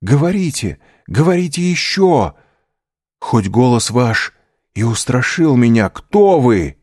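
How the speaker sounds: breathless excited appeal; eager pleading. A narrator's reading. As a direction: beg the voice to keep talking. Prisoner begging the hidden voice.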